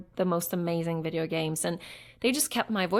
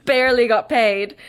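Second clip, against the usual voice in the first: laughing through the words, louder; amused, laughing aside; 4 semitones higher, 10 dB louder than usual. Real, not acted. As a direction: chuckle out a wry joke about the pay. Joking about being paid in pizza.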